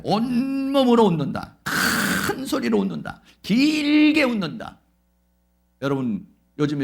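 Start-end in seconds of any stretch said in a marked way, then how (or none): 0.0-4.8 each rule said slowly, higher and louder; teacher stressing three laughter rules; slow emphatic recital. Shown as a demonstration. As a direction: drill the three rules into them. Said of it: "세 가지잖아요".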